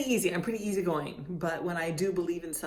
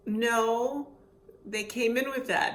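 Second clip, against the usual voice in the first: louder, higher doctor's reply; lightly voiced doctor, higher and louder; retold doctor; 5 semitones higher, 4 dB louder, slower than usual. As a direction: quote the other doctor, raised.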